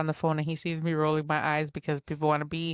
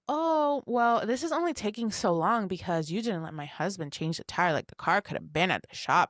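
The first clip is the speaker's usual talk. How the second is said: mildly indignant imitation of the neighbor; mock indignation. Neighbor's wife blaming her for the tow delay, mock indignant. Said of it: "she didn't say with that indignation".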